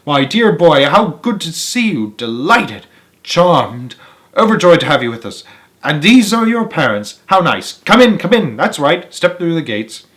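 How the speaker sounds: bubbly, rapid Wonka greeting; an overjoyed host, light and lively; excited welcome. Acted. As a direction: gush over the boy and his parents. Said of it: "clearly just as excited".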